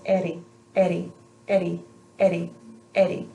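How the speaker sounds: eri with a light tongue tap; tapped r drill. Shown as a demonstration. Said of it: "tongue is just gonna very lightly flick up".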